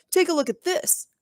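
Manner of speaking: high, mocking tease; taunting bully. A narrator's reading. Bully showing off a stolen drawing. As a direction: dangle the secret in front of everyone.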